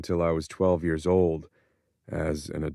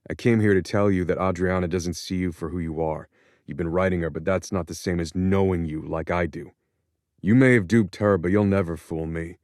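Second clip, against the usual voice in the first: angry warning; 3 dB louder than usual. Acted. Son warns father off Adriana.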